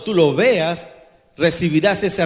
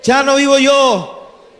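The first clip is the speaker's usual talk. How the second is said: louder and higher, very slow, at full force; louder, higher proclaiming; 7 semitones higher, 8 dB louder, much slower than usual. Acted. Preacher leads the congregation, repeat at full force. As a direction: proclaim it at the peak of the chant, slower still. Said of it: "Digan conmigo".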